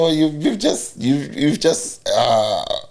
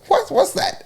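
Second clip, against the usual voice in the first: confused listener. Retold or imitated. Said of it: "They go like".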